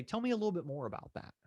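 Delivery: demo agent line. Shown as a demonstration.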